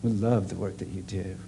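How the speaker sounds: prayer. Acted. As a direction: pray gently over the room. Leads a closing prayer.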